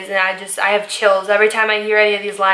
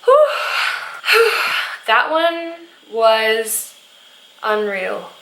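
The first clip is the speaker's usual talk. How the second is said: lost for words; slower than usual. Real, not acted. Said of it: "I can't even talk".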